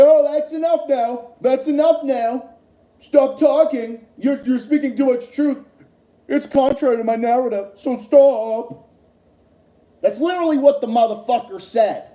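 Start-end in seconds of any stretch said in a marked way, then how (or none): 0.0-8.9 hammed-up scold, slowing on stop talking; mocking moderator. Mimicking the moderator shutting down Jeffrey Sachs, mock scolding. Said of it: "Because it's like".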